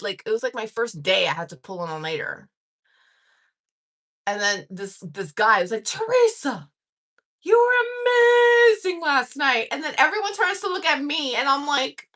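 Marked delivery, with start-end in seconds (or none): 5.8-9.7 high shout, stretched on amazing; imitating a boss's loud, drawn-out shout; retold screaming praise. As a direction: bellow it down the hall. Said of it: "fucking screaming at me that I was amazing".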